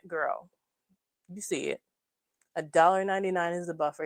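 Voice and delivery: ordinary delivery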